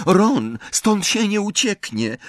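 put-on high-pitched girl's voice; Luna's matter-of-fact remark. A narrator's reading. Luna tells Ron there is no escape, high girlish voice. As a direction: lift the voice high for the girl.

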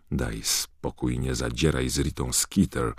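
fearful. Acted. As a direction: beg her to back off. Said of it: "powiedział Ron ze strachem".

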